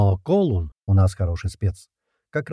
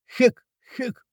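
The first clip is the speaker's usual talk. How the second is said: sharp grunts on each axe swing; effort grunts. Acted. He grunts while chopping firewood, sharp effort grunts. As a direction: grunt as if splitting logs.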